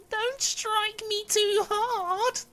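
very high, slow squeaky plea; tiny begging voice. Acted. Talking wood begging the carpenter, tiny high voice. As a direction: plead in a tiny, drawn-out falsetto. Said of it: "a very tiny voice begging him gently".

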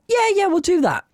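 mock girlfriend. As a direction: brush him off sweetly.

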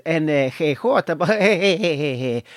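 hesitant, badly faked Spanish accent; put-on Spanish accent. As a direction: stumble suggestively through a mock Spanish accent. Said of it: "he pretended he was Spanish".

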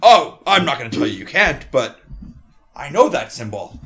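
loud, hearty dwarf rambling; jolly dwarf. Acted. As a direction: play the cheery old dwarf chatting. Dwarf recalling the lad.

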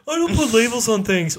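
put-on high, loud white girl voice; airy valley girl quote. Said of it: "that's my white girl voice".

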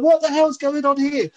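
high, bewildered exclamation; shocked disbelief. Retold or imitated. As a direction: sound stunned and thrown. Retold shock, much higher.

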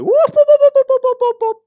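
high, loud whoop whoop cries; imitated whooping. A baby riding on the parrot, whooping high and loud. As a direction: whoop it out like a flapping bird. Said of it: "she's going".

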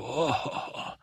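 hammed-up pirate chuckle; acted pirate laugh. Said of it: "and he laughed".

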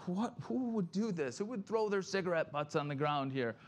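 grumbling pastor annoyed at cigarette butts on the ground; indignant complaining. Retold or imitated. Chuck Smith grumbling about litter at church, lightly indignant. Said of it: "like, complaining".

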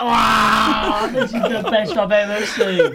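laughing wow at the fight; delighted. Retold or imitated. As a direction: gleefully cheer it on. Retold delighted reaction.

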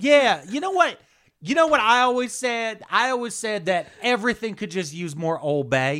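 put-on a big, high, gushing Southern belle accent; Southern lady. Spy chatting up Baltimore locals in a loud, high Southern belle accent. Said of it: "She's pretending to be a Southern lady".

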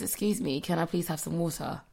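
matter-of-fact, courteous re-enactment; polite request. Retold or imitated. Showing how she really asked the waiter, politely. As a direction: ask politely without any flirting. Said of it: "I doubt it wasn't seduction".

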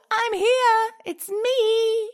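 high, bright proud call; proud announcement. Retold or imitated. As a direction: announce yourself triumphantly. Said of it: "proudly proclaimed her arrival".

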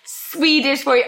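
imitating. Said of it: "You went".

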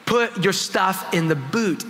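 slow, emphatic mock irritation; mad taxi driver. Australian driver repeating himself to confused tourists, mildly mad and slow. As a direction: spell it out slowly, as an exasperated driver. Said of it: "then he gets mad again".

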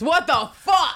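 high, loud disbelief; incredulous outburst. Real, not acted. Reacting to the diary entry, loud shocked disbelief. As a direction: blurt it out in shock.

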